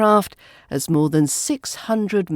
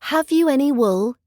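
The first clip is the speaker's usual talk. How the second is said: sing-song rhyme reading, a bit higher; nursery rhyme recitation; 4 semitones higher than usual. Acted. Teacher reading rhymes to English learners, sing-song. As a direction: recite it like reading to small children.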